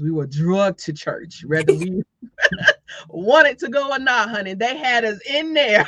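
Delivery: chuckling through the words; laughing. Real, not acted. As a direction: laugh it out as you tell it. Laughing about being dragged to church.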